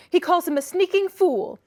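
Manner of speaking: high, loud jeering; angry boy. A narrator's reading. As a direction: jeer at her father. Children quarrelling.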